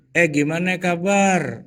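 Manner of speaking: slow, easy friendly greeting; gentle greeting. Shown as a demonstration. Indonesian way of greeting a friend, slow and gentle. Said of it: "cara kita gini".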